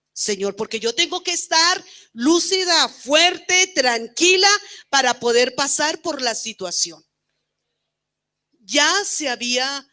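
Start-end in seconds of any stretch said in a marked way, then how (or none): 0.1-7.0 retold prayer. Woman retells her prayer to the Lord, fervent and raised. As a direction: ask the Lord for strength with fervour.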